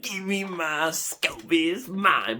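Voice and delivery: hammed-up possessive demand; greedy demand. Buyer emailing the seller, mock greedy demand.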